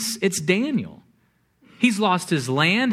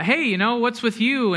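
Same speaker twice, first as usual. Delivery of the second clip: higher-pitched, teasing challenge; lighthearted ribbing; 6 semitones higher than usual. Retold or imitated. Drinkers teasing the teetotal mentor, lighthearted ribbing. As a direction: needle him playfully, pitched up. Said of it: "people would make the lighthearted comments".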